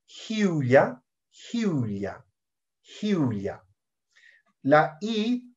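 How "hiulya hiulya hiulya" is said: "hiulya" opening on a soft Spanish j. Shown as a demonstration. Teacher showing the letter H, soft J sound. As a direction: breathe a soft j to start "hiulya". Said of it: "La H suena como una J suave".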